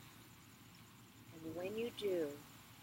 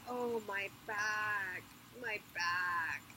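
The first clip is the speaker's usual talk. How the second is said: moaning; much slower than usual. Retold or imitated. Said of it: "moaning and groaning".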